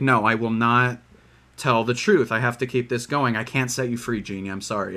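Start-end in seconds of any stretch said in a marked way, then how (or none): none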